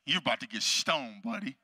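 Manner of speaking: a hint of a low taunting devil; lightly voiced taunting enemy. The enemy to the doubting preacher, lightly voiced taunt. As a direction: taunt him, starting low. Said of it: "the enemy's like".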